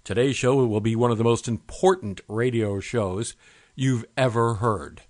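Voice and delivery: hype voice. Shown as a demonstration. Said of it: "When you start your radio show".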